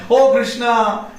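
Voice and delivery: high, drawn-out mock cry. Gopakumar overcome with emotion, crying out to Krishna. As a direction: wail the name in mild earnest. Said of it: "Again he is crying".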